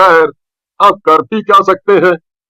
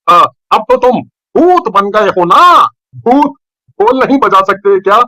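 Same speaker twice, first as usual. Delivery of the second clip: shocked; 3 semitones higher than usual. Acted. Gujju hears the ghost will keep drumming, stammering. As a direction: stumble over the words in shock.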